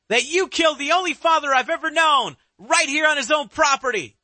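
high, eerie villain voice; dark whisper behind you. Acted. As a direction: accuse him with cold fury. Killer's accusation.

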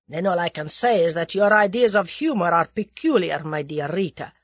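lightly voiced Russian man, reproachful; a touch of heated reproach; exasperated Russian conspirator. A narrator's reading. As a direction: warn her as her uneasy accomplice.

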